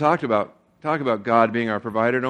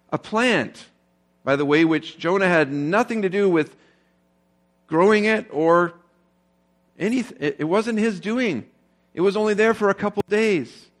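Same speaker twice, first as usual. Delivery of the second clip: higher and louder, pressing the point home; impassioned preaching; 6 semitones higher, 4 dB louder than usual. Acted. Pastor pressing God's rebuke on the church, impassioned and loud. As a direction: preach it with rising fire.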